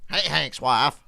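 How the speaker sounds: a hint of a cranky old Texan; lightly voiced grumpy old man; Cotton Hill voice. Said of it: "That's my Cotton Hill voice".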